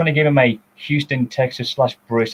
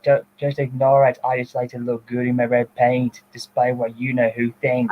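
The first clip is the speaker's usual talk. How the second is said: lightly voiced German accent; level, even German-accented delivery; German James. As German James introducing himself, light German accent. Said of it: "used to call him German James".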